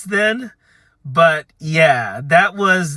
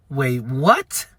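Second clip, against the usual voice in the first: puzzled, question swooping up; baffled disbelief; 4 semitones lower than usual. Retold or imitated. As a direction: lower start, sharply rising "what". Acted stunned reply to odd claim.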